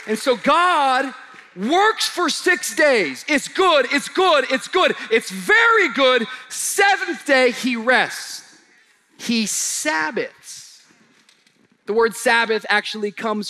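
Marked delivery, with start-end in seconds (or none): 0.1-10.8 preaching at full force. Acted. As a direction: lift the room to praise.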